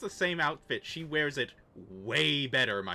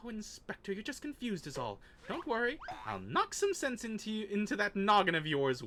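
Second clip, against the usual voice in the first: high sweet voice; 6 semitones higher than usual. Acted. NPC girl cheerful threat.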